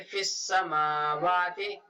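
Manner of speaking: slow Quranic recitation of फिस समावाति; Koranrezitation. Shown as a demonstration. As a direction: chant फिस समावाति slowly, drawing out the vowels. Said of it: "ऐसे यहाँ पर देखें".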